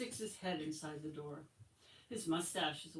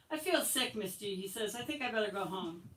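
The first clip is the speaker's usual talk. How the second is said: put-on whiny sick boy; 3 semitones higher than usual. Whiny boy faking sickness.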